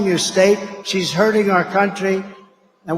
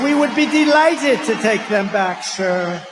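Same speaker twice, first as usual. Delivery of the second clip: higher, louder mock-servile official; eager mock politeness; 3 semitones higher, 5 dB louder than usual. Leader mimicking foreign officials' eager yes-sir. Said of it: "They said".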